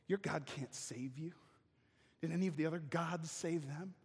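a hint of a sneering envoy; quiet sly provocation; lightly voiced enemy taunt.

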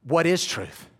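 mocking sarcastic question; a touch of sneering sarcasm. Shown as a demonstration. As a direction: toss it off with sarcasm. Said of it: "Is it this?".

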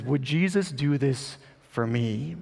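slow, hushed plea; hopeful, desperate question. Retold or imitated. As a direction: ask it slowly, half afraid of the answer. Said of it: "combination of hope and a shame and fear and desperation".

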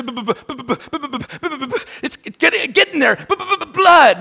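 mock stutter, stuck on the b; imitating a stammer; stammering Moses.

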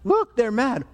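hurried, gleeful summons to come and look; acted jeering aside to onlookers; rally friends to laugh at someone; mocking call-out. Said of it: "he calls out to his heavenly host".

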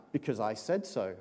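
low, firm parental put-down; stern parent. Retold or imitated. Parent shutting down child's question, low and stern. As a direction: shut the child down, low and final.

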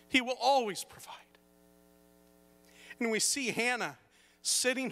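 high, forceful pulpit delivery; emphatic preaching. Acted. Preacher giving the morning's takeaway, emphatic preaching. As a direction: drive the principle home to the congregation.

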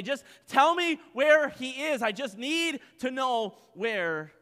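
high, loud, desperate plea; pleading Mary. Acted. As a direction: beg to know where he is. Preacher voices Mary's desperate plea.

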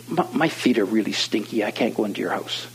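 soft, low, embarrassed confession; sheepish admission. Retold or imitated. Young man too embarrassed to enter the house, soft and sheepish. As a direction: imitate a shy young man owning up quietly.

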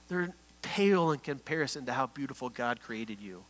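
soft, low fatherly voice with long pauses; tender reassurance. Retold or imitated. Dad comforting his young daughter, tender reassurance. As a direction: quietly reassure a child.

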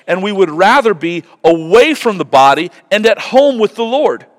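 high, loud preached reading; fervent scripture reading. Acted. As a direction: proclaim the passage with conviction. Reads Corinthians passage.

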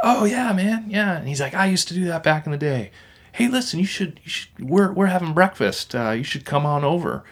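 put-on the Quebec guy inviting them to breakfast, in his accent; imitating Quebec accent. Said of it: "thick Quebec accent".

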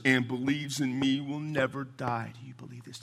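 slow, deliberate scripture voice; solemn preaching read. Acted. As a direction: let each phrase land slowly. Preacher reading Jesus' words.

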